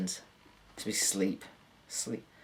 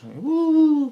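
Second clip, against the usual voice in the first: loud high woo; high joyful whoop; 10 dB louder than usual. Pretend. Dreamer flying as a bird, whooping high and loud. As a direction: whoop as you soar.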